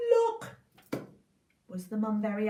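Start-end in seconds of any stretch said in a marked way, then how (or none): 0.1-0.6 high, excited gasp of look. Acted. Jack showing his mum the gold, gasping high. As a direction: show off the treasure.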